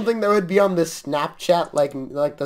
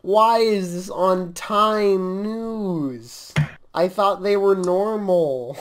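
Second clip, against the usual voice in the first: drawn-out, dismayed complaint; dismayed disbelief; much slower than usual. Real, not acted. Host dismayed at a silly magazine story, disbelieving. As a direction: stretch the words out in disbelief.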